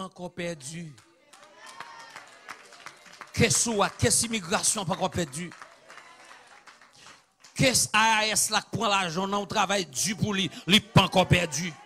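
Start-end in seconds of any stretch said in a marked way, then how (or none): 3.3-11.7 raised, emphatic preacher's voice; rally the congregation with punched phrases; rousing preaching. Acted. (prèch cho, ak vwa fò)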